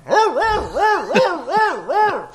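high squeaky alien screech; alien noise. Pretend. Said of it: "Using your alien voice".

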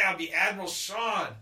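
loud proud announcement; excited shout. Real, not acted. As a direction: proclaim it like a title. Grand boast about owning a fleet.

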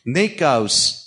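very slow, solemn deadpan punchline; Christopher Walken impression. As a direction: draw out each word like a grave verdict. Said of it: "And he goes".

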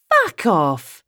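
put-on blurted in a strong London accent. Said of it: "I blurt out, my London accent having never sounded stronger".

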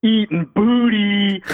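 high, drawn-out holler; imitated yell. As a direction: yell it out slowly like a proud stoned patient. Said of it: "And he just yells".

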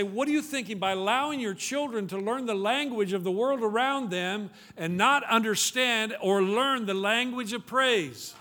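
high, impassioned preacher's rebuke; exasperated scolding. Acted. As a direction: build the reproach through one long question. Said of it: "And, and just say".

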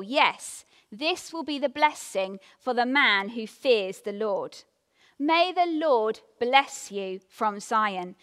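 scripture reading. Acted. Preacher reading a psalm to the congregation, solemn.

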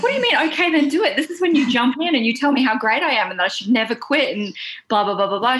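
high, incredulous outburst; indignant disbelief. Retold or imitated. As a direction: act outraged at the friend's answer. Retold indignant reply to friend.

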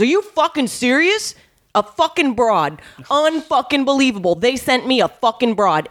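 hammed-up outraged mobster; outraged yelling. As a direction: rant at the girl comic in mock fury. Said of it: "ten minutes of screaming in my face".

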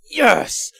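high, loud hobbyist's "yes"; excited cheer. Acted. Hobbyist hearing of a new release, excited cheer. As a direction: burst out in mock fan excitement.

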